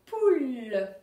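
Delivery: Poule said again, firmly and loud; firm repeat. Shown as a demonstration. Teacher repeating for pupils, firm. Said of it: "vous allez dire si on entend".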